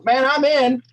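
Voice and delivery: high, loud eager yes. Acted. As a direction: jump right in with excitement. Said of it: "you go".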